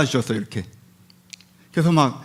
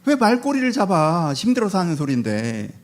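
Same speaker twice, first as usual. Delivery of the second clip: exasperated retort. Acted. Job to friends who pick at his words, exasperated retort.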